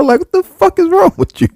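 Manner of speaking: mock furious outburst; outraged yell. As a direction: shout at him in disbelief. Retold outrage at guy.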